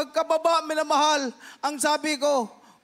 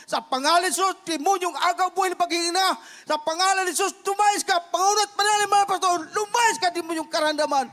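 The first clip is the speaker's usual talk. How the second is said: commanding prayer; 4 semitones higher than usual. Retold or imitated. Pastor rebukes the demon of weakness in Jesus' name, commanding prayer. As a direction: cast the demon out with rising force.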